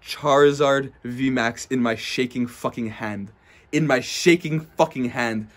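slow, awed and trembling with excitement; breathless awe at the rare card; stunned excitement. Real, not acted. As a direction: savor every word of the big pull. Pulls a Charizard, hands shaking.

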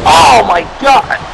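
exclaiming through hiccups. Real, not acted. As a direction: voice jolted by a hiccup. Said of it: "Sorry, I got the hiccups".

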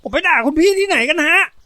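high, loud, indignant denial; high-pitched boyish disbelief; astonished little boy. A narrator's reading. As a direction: protest like a wide-eyed kid. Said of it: "เด็กน้อยอ้าปากค้างในตาพองโตเป็นไข่ห่าน".

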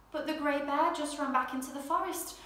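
gentle storyteller reading a picture book aloud; bedtime story narration. A narrator's reading. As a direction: read it like a bedtime story for little ones.

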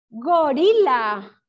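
"gorila" very slow and loud, vowels stretched; drawn-out dictation. Shown as a demonstration. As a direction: announce "gorila" loudly, dragging each syllable. Teacher dictates a new word. ("gorila" fuerte y lento, alargando las sílabas)

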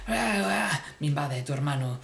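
normal talking voice

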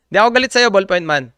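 rushed through a laugh, fast and light. Real, not acted. Reassuring the ballpoint user while laughing fast. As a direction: laugh it out quickly, half joking.

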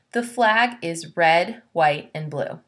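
slow, rising "red", then "white, and blue" falling; listing rhythm. Shown as a demonstration. Teacher reads the three colours as a series. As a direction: read the list with a pause at each item. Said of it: "We have three things here".

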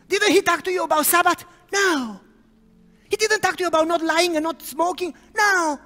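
high, loud teasing questions; preacher jokingly grilling the girl; mock interrogation. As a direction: rattle off the questions playfully.

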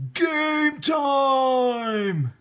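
high, loud referee call; yelled. Acted. Referee shouting to both teams, loud. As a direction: call it out across the field.

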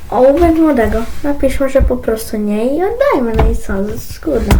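ordinary talk, nothing marked

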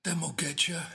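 put-on high, breathy old woman whisper; whispered crone taunt. A narrator's reading. Old woman repeating her taunt in a high whisper. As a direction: hiss it like a mad old crone. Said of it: "the old woman sang".

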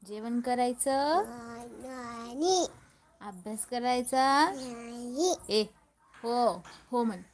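loud, bouncy singsong questions; playful questioning. Real, not acted. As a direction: tease him with big rising questions. Prompting child to say yes.

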